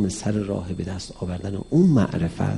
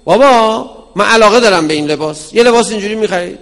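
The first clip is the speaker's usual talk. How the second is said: put-on child asking father; 10 semitones higher, 12 dB louder than usual. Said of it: "نگو".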